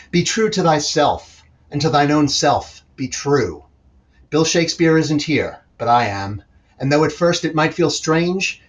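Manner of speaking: rhythmic, punchy poetry performance; slam poem. Acted. Slam poet performing his poem to the audience, rhythmic spoken word. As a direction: drive the rhymes home like a slam poet.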